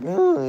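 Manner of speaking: short high cracking "mm"; voice-crack squeak. Shown as a demonstration. Showing chat how the voice still cracks, squeaky hum. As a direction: let a little hum jump up and crack. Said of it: "I just voice crack".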